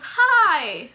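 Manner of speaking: a cheery answer to a fan; bright hi. Retold or imitated.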